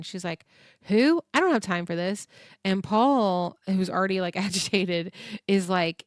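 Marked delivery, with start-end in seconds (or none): 0.8-2.3 sharp loud brush-off, pitched up on who; irritated outburst. Retold or imitated. Kim to an unknown caller, a sharp brush-off. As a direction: cut off a caller you don't know, impatient.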